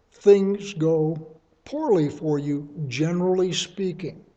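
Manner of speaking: carefully measured, with small pauses; deliberate, hedged delivery. Real, not acted. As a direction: place each phrase with care. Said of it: "I said that very carefully".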